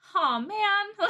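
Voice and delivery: very high-pitched, really sad, dejected voice. Retelling finding their shoe sole loose, the speaker acts out being really sad. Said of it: "like really sad".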